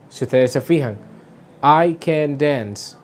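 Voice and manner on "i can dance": slow, "dance" stressed and falling. Shown as a demonstration. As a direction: land the weight on "dance". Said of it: "el énfasis se hace en la palabra que está después del modal verb". (énfasis en "dance", lento)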